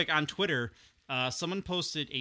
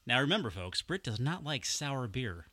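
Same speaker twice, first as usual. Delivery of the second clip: game show announcer; 4 dB quieter than usual. Pretend. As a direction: build suspense for the folks at home. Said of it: "I said it like a game show announcer".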